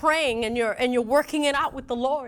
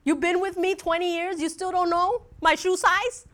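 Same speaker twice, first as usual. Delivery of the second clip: exasperated wife; 4 semitones higher than usual. Retold or imitated. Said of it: "I'm like".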